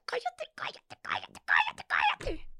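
breathless whispered "cállate" over and over; whispering at her crying son at night; desperate whisper. Retold or imitated. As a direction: hush the baby through clenched exhaustion. Retold hushing the crying baby.

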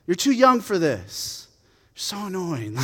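lightly acted big-brother irritation; annoyed older brother. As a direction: send a kid brother away, exasperated. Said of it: "And Eliab's".

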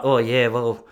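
a lightly voiced creepy admirer; mild, leering stranger at a gig. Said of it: "I don't know why I'm doing that voice".

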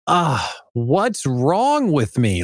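drawn-out, slow mock lament; slow, hammed-up woe-is-me question; mock self-reproach. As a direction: act out an exasperated self-doubter, dragging it out. Voices a struggling owner's self-doubt.

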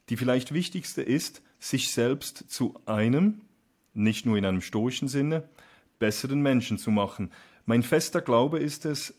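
measured, deliberately spaced reading; reading a quote aloud. Acted. Host quoting the guest's own text back, measured reading. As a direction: read it out slowly, letting the final words sink.

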